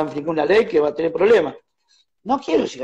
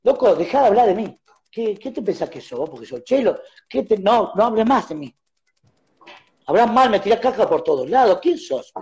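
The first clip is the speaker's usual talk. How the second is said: imitating aggressive tone; 3 semitones higher than usual. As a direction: retell the caller scolding, scornful. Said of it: "con ese tono". (imitando el tono agresivo y despectivo)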